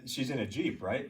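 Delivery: usual speaking voice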